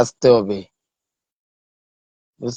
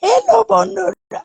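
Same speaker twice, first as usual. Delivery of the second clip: very high put-on squeaky voice; acting voice. Child acting for the live stream, high squeaky greeting. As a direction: greet friends in a tiny cartoon voice. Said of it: "এটাও আমি acting করতে পারি".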